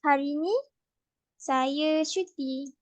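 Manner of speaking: "saya cuti" said slowly and clearly; slow example. Shown as a demonstration. Host gives a slow Malay example sentence.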